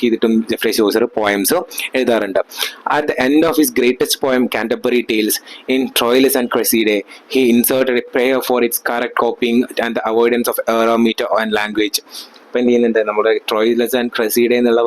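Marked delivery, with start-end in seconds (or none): 3.0-12.0 reading each word out very slowly, like dictation; slow textbook reading. Acted. Teacher dictating notes to students, very slowly. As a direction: read the notes out for the class to copy. Reads English text aloud slowly.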